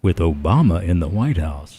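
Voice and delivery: low, dark attack-ad read; ominous ad voiceover. Shown as a demonstration. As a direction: sound like doom is coming. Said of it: "Do your phantom voice again".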